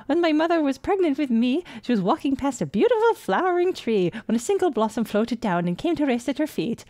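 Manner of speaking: put-on little girl. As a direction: recount it like an earnest little girl.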